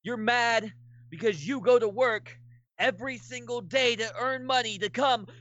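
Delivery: cocky heel wrestler taunting the crowd; trash-talk the booing fans like a heel; wrestling promo. Pretend. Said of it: "All right, cut your promo".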